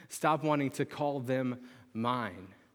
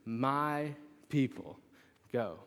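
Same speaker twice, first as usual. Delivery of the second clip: slow, solemn proclamation; slow, weighty Moses command to Pharaoh; Moses declaring; much slower than usual. Retold or imitated. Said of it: "he would say".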